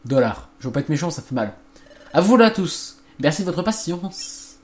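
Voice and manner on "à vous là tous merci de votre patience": calling out. Acted. Calling all to dinner.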